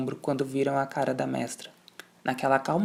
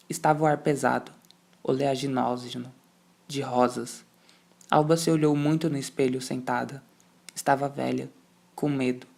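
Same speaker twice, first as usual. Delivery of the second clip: plain reading voice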